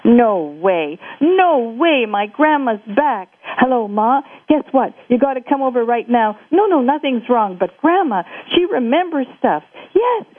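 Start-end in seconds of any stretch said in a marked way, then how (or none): 2.1-10.2 excited phone call. Acted. Jake phones his mother.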